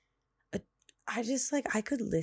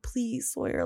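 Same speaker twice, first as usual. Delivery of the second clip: put-on higher-pitched coaxing of a child; apologetic pleading; 7 semitones higher, slower than usual. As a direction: plead with a toddler who is welling up. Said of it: "I'm sorry that I got so worked up".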